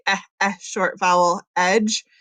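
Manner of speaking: short E sounded out as "eh"; short vowel demo. Shown as a demonstration. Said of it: "I would wanna make it say".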